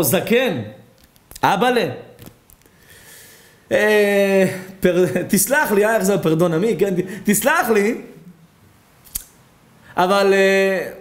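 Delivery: high, halting, apologetic doctor voice; awkward doctor. Acted. Doctor awkwardly presents the bill to the old man, hesitant and high. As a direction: stammer out the bad news gently.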